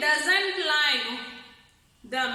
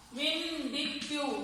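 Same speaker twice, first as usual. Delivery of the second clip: whispered demo; 7 dB quieter, slower than usual. Shown as a demonstration. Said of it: "vindictive whisper means strong whisper".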